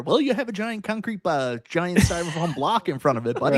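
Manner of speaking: a hint of put-on helpdesk patience, pointing out the obvious; mock support rep. Support rep answers a customer's stuck-ramp complaint, mock explaining.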